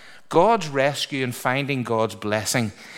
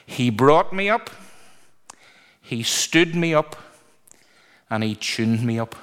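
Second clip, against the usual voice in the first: put-on old country preacher quote. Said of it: "I wish I could do the accent, I'm not even gonna try".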